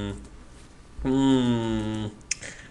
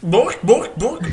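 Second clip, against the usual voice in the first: barking bork; 7 semitones higher, slower than usual. Pretend. Playful barking noise.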